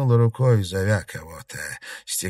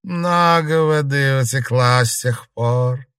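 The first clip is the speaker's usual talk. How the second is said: ghost voice; 5 semitones higher, 6 dB louder, slower than usual. A narrator's reading. Ghost speaks from mirror.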